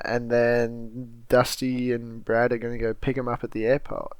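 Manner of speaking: put-on Boston accent, r dropped in "airport" like "aihpo't"; lightly put-on Boston accent on "airport". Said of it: "So I'm doing my Boston accent".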